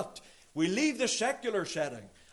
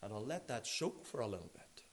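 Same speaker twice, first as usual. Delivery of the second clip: borrowed saying; 10 semitones lower, 12 dB quieter than usual. Retold or imitated. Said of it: "I'll borrow Mister McElwain's expression".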